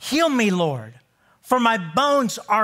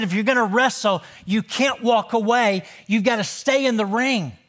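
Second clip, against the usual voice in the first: emphatic repeat. Shown as a demonstration. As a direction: hit it harder the second time. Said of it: "I said".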